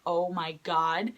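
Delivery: slow, low retold awe; starstruck. Fan recalling meeting her idols, slowly starstruck. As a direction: draw it out, mildly awed. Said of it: "I was so starstruck".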